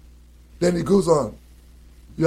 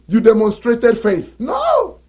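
scornful outburst; 3 semitones higher than usual. Real, not acted. Mocking wrong reading, cry out.

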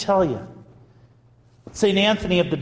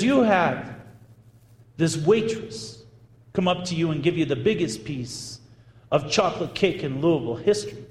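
Southern drawl; 3 semitones higher than usual. Retold or imitated. Friend recounting the blessing to birthday woman, imitated Southern drawl. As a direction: play a Southern woman testifying, lightly drawled. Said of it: "in her thick Southern Louisville drawl".

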